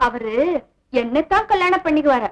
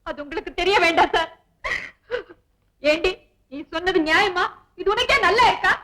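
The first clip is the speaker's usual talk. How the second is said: fake tearful complaint. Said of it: "பிரமாதண்டி உன் நடிப்பு".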